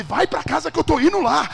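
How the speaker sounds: loud, high-pitched command; acted hollering; shouted order. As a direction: yell it as an urgent send-off.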